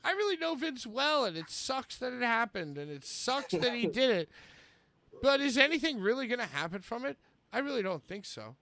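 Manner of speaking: emphatic theatrical read-aloud; Chris Jericho. Acted. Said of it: "This is Chris Jericho".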